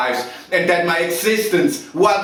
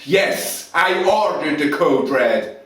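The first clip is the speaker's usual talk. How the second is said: loud, raised-pitch furious outburst; angry tirade; 4 semitones higher, 4 dB louder than usual. Acted. Officer defending himself to Lieutenant Weinberg, loud angry tirade. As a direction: thunder contemptuously, leaning hard on the key words. Officer erupts under questioning, acted monologue.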